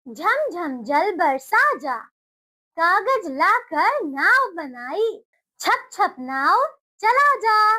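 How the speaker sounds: slow, sing-song recital; slow nursery rhyme recital; poem for children. Shown as a demonstration. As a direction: recite the rhyme slowly for little ones.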